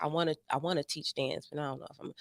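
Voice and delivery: hushed, low inner voice, trailing away; retold self-talk. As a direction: let it sink low and soft, like a private thought. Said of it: "things I had said to myself".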